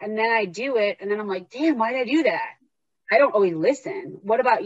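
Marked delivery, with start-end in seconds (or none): 1.5-2.6 higher, exasperated self-reproach; mock regret. Woman rueing that she did it, mock exasperation. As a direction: kick yourself lightly, pitch swooping up.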